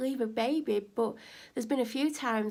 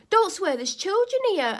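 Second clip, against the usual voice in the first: loud, higher scolding yell; mock scolding shout; 9 semitones higher, 8 dB louder than usual. Neighbour yelling at her not to swear. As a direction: scold sharply over the noise. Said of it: "she went".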